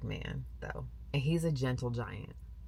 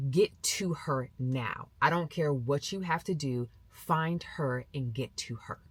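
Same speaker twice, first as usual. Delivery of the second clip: slow, deliberate command; firm urgent order; slower than usual. Retold or imitated. Mother texting her husband to reach their daughter, firm urgent order. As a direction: spell out each word like a firm instruction.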